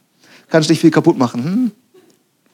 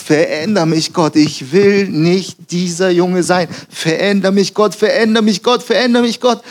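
flehendes Gebet. Retold or imitated. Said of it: "ich hab gebetet die ganze Nacht".

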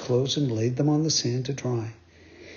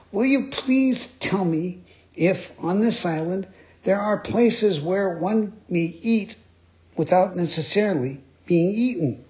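Pinocchio voice; 5 semitones higher than usual. Acted. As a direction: ask hopefully in a high voice. Pinocchio asks the dolphin.

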